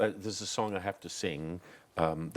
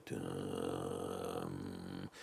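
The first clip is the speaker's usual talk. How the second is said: deep hummed cello note; imitated cello note; 13 semitones lower, 10 dB quieter than usual. Shown as a demonstration. Imitating a cello under the film scene, low hum. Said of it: "a cello might come in on film and go".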